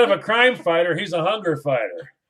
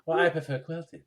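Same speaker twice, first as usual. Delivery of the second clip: prissy put-on voice, lightly done; mocking a picky shopper of fancy toilet paper; mock fussy lady. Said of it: "I don't think it was".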